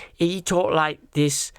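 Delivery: slow, lightly put-on South African accent; a hint of mock South African. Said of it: "South African accent".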